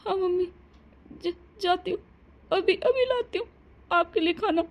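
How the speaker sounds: scared bride hurrying to obey the mother-in-law; frightened compliance. Acted. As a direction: stammer in fear, eager to obey. Bride frightened after the push.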